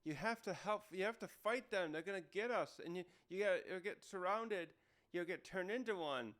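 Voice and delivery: lightly acted pleading alarm; mock urgent yell. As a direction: urge a friend to fight, without really shouting. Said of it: "I think that's Chopper yelling us".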